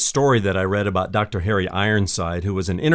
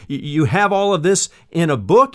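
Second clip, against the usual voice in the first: bewildered; 5 semitones higher, 5 dB louder than usual. Acted. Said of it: "she had a bewildered look on her face".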